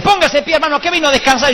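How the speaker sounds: mock the over-excited leader calling people up; electric worship leader. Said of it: "el eléctrico". (líder de alabanza eléctrico, agudo y fuerte)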